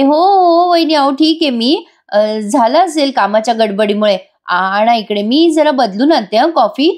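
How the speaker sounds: hurried, embarrassed reassurance; flustered young wife. Retold or imitated. Wife covering her hurt before family, flustered.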